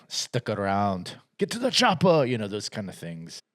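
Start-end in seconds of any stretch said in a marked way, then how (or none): 0.1-2.2 lightly voiced eighties action hero; action hero one-liners. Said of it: "which in the eighties would be".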